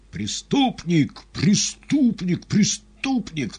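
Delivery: очень высоко, громко и медленно; крикни так, чтоб слышали в саду; громкий выклик. A narrator's reading. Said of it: "выкликая слова так, чтобы их слышали в саду". (громкий выклик на весь сад)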